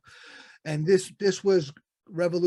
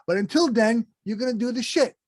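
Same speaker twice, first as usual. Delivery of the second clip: higher-pitched, laughing paraphrase of a blunt God; amused mock God; 7 semitones higher, 3 dB louder than usual. Host voices God's answer to the guest, amused and laughing.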